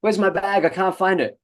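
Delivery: put-on high child calling for mum; whiny kid calling. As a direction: call out like a lost child.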